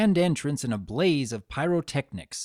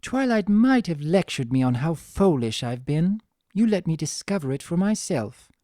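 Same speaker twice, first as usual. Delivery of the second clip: lightly voiced refined mare, wondering aloud; Rarity musing; 4 semitones higher, 4 dB louder than usual. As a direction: muse aloud as a refined lady. Rarity thanks Fluttershy.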